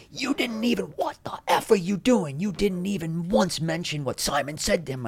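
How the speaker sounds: high, heated scolding rant; angry chewing out. Retold or imitated. Producer scolding the host backstage, heated high rant. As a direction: tear into him like an enraged boss. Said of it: "he just starts chewing me out".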